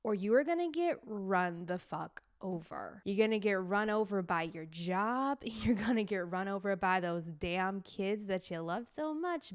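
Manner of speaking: normal talking voice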